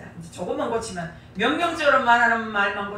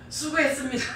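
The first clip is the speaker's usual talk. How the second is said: imitating polite thanks; 3 semitones higher than usual. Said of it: "말투가 싹 바뀌었어요".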